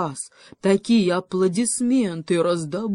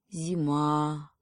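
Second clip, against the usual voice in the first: dreamy; 2 semitones lower than usual. Acted. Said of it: "мечтательно произнёс заяц".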